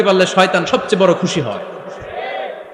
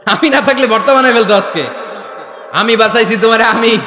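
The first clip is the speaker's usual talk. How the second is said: teasing boast; 3 semitones higher than usual. Acted. Husband teasingly boasts of rescuing wife.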